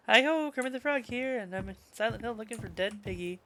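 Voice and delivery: a bad, half-hearted cartoon frog impression; Kermit the Frog voice. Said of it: "I can't do a good Kermit the Frog voice".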